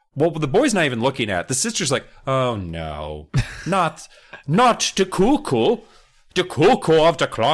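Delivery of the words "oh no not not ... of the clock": slow, swooping homemade put-on Dutch accent. Voicing the sister reacting to the cuckoo: put-on Dutch accent. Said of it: "That's my Dutch accent".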